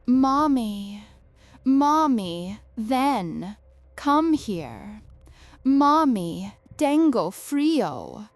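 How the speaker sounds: put-on high, loud pleading little girl; a ghostly little girl begging for her mother; small child's voice. A narrator's reading. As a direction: call out like a cold, lonely child. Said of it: "That small voice getting clearer".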